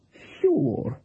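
mild, kindly agreement. A narrator's reading. Voodoo woman agreeing with the cook about the taste, kindly. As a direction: agree gently, in character. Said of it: "said Missus Gogol kindly".

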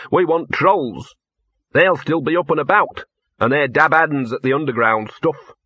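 lightly voiced bossy small dog; Gaspode giving directions. Gaspode directing Laddie to the Blue Lias, lightly voiced.

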